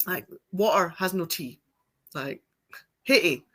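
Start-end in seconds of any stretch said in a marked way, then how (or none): 3.0-3.4 "hey" for have, with no V at all; Scottish dropped V. Shown as a demonstration. Showing how Scots clip letters from words, "hey" without the V. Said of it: "There's no V in have".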